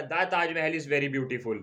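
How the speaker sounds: दा Taj Mahal with a clear "दा", slowly; correct article "the". Shown as a demonstration. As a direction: stress the correct "दा" before Taj Mahal. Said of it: "दा आएगा". (सही article "दा" साफ़ और धीरे)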